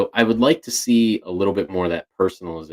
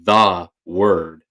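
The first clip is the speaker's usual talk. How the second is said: "the word" said with strong emphasis; emphatic stress; 5 dB louder than usual. Shown as a demonstration. Explaining how a voice assistant can stress things, emphatic "the word". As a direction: lean hard on "the word". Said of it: "making it strong where there's emphasis on".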